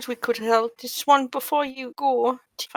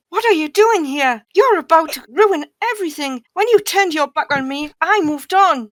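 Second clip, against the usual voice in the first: upset outburst; 3 semitones higher, 7 dB louder than usual. Acted. Confronting former lover at wedding.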